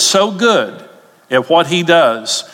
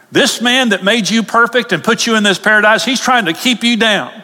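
higher, rising indignation; voice going up; 6 semitones higher than usual. Real, not acted. Preacher upset at the devil's lie, voice rising. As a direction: pitch climbs as he gets upset. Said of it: "when I get upset, my voice goes up".

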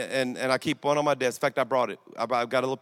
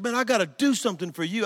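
higher-pitched, happily insistent; happy imitated insistence; 6 semitones higher than usual. Happy convert insisting on repaying preacher, higher and eager. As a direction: press a favour on him, overjoyed. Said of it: "He was so happy".

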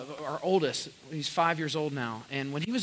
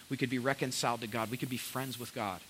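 fast then softer, tender; fading tender close; 6 semitones lower, 7 dB quieter than usual. Acted. Pastor ending the point to his church, soft. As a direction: drop to a hush.

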